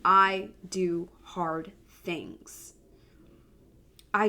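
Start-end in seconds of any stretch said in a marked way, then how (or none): 0.0-2.7 I do hard things, said very slowly and deliberately; slow affirmation. Shown as a demonstration. Mom sharing her yearly affirmation, slow and deliberate. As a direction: plant each word of I do hard things like a mantra. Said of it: "my number one affirmation".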